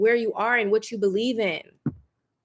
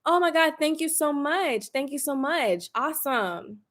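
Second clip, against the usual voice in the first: a touch of sugary fake gratitude, softer; fake polite thanks; 4 semitones higher, 3 dB quieter than usual. Answering a backhanded compliment in person with fake sweetness. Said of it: "I'm just like".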